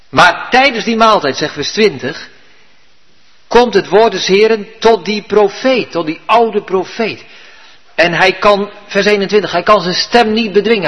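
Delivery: ordinary delivery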